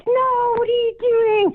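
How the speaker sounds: high, slow, shocked mock yell; retold cry at a son throwing a shell; alarmed shout. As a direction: scold the kid in disbelief.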